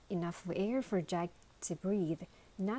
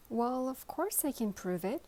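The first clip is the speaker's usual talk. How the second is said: joyful cry; 5 semitones higher than usual. Acted. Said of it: "cried Lunchbox joyfully".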